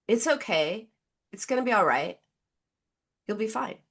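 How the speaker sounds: flat, gloomy reassurance like at a funeral; funereal. Retold or imitated. Patient mimicking her own gloomy self-talk, funereal. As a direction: say the comfort as if at a funeral. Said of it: "she sounded like she was at a funeral".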